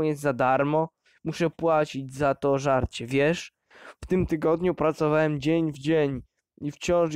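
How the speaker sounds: loud resentful tirade; angry rant. Acted. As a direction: hammer him with every grievance. Father rants about paying.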